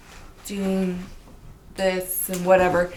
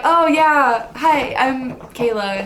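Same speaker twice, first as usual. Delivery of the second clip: eager high greeting; 5 semitones higher, slower than usual. Retold or imitated. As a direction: greet him overeager, voice jumping up. Retold eager greeting to him.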